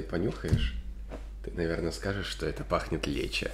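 container held at mouth; speaking into a jar; talking while sniffing food. Real, not acted. Seen 0: Man holds kimchi container to nose while talking; no chewing seen.

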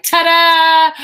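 triumphant high loud ta-da. Retold or imitated. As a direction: announce your win like a magician. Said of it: "and I'm like".

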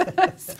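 bright burst of laughter; loud high laugh. Real, not acted. Laughs at own story.

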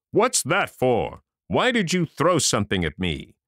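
startled giant. A narrator's reading. Giant wakes and cries.

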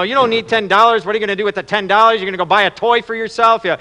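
rapid scolding dad lecture; acted exasperated father telling off his son; chewing out. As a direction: lecture the boy, building to a firm order. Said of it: "he starts chewing out the son, giving him a lecture".

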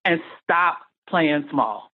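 slow, deliberate, each word weighed; slow firm advice. Retold or imitated. Retreat friend advising her, slow and deliberate. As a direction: lay it down slowly like a mentor. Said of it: "She said".

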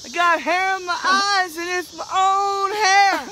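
bouncing while talking; jolted words mid-jump; on a trampoline. Real, not acted. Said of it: "on the trampoline".

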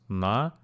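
На-ве-щать, each syllable said apart; На-ве-щать in three separate beats; split into syllables. Shown as a demonstration. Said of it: "has three syllables".

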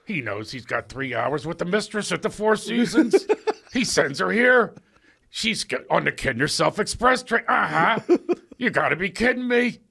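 snide teacher's aside, barely holding a laugh; catty whispered aside. Retold or imitated. Teacher whispering to Craig about a student, catty and high. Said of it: "he would whisper to me".

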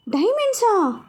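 astonished at the diamonds; high amazed rise; surprised. Acted. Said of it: "ఆశ్చర్యంగా అడిగింది".

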